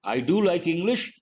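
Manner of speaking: "do" given the emphasis; emphatic DO. Shown as a demonstration. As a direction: insist by stressing "do". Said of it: "you're trying to emphasize".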